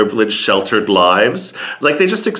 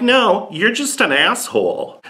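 mock retort; 9 semitones higher than usual. Her retort to Dutchman.

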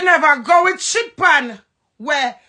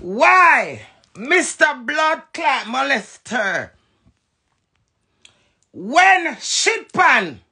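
mock formal address; much slower than usual. Real, not acted.

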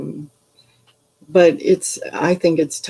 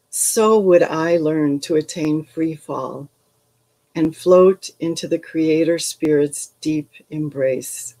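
slow, measured poetry reading; poem reading. Acted. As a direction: read it like a poem, unhurried. Reads poem to the group.

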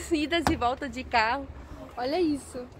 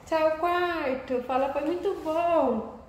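high, slow goodbye to the room; tender farewell; 4 semitones higher, slower than usual. Real, not acted.

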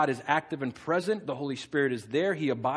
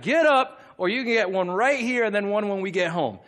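imitated angry threat; 3 semitones higher, 3 dB louder than usual. Balaam threatening his donkey, mock angry scolding. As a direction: play an angry owner threatening a whooping. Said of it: "You ever been that angry?".

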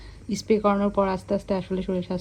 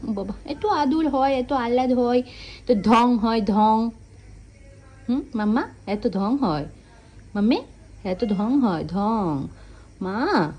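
teasing coo; 3 semitones higher, slower than usual. Real, not acted. Owner teasing her fussy cat, playful cooing. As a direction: tease the cat fondly for being fussy.

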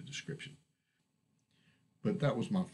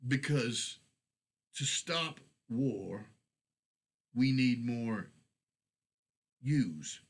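put-on slow, halting, louder accented plea; broken accented Dwarvish; 4 semitones higher, 3 dB louder, slower than usual. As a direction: push the words out slowly, in broken Dwarvish. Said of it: "in broken, heavily accented Dwarvish".

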